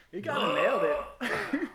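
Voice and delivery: slow, amused admission; laughing. Real, not acted. Storyteller admitting the teacher was right, laughing. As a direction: concede it through laughter.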